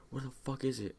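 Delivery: high-pitched imitation of an annoyed dad; mock irate demand. Dad demands the missing pills, mock irate.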